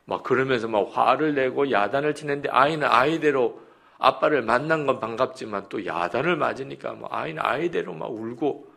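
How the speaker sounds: ordinary delivery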